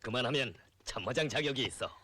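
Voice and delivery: usual speaking voice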